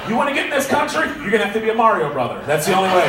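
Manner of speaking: mock rant.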